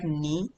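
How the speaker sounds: Ni in a drawn-out third tone, ending on a rise; Ni with its tone stretched out for learners. Shown as a demonstration. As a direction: say Ni slowly with a Mandarin third tone. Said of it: "Ni has the third tone".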